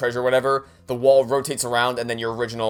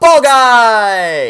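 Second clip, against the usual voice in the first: very loud, high-pitched yell with a word drawn out; 10 semitones higher, 13 dB louder than usual. Breaking off mid-sentence to call out suddenly: loud shout. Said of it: "did I kill your ears when I said that?".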